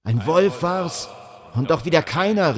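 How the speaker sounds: shuddering cry. A narrator's reading. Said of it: "rief ein zweiter schaudernd".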